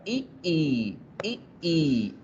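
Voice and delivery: "I, I" as a short clipped i, then a drawn-out i; short then long vowel. Shown as a demonstration. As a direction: alternate short "I" and long held "I". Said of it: "corta y larga".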